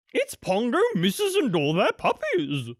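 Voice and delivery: high, excited cry from the nannies. A narrator's reading. Nannies cry out from on top of the piano, high excited. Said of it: "cried the nannies".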